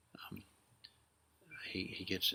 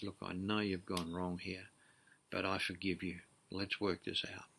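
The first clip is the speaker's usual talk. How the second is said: forgiving father; 2 semitones lower, 5 dB quieter than usual. Acted. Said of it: "a father who is forgiving".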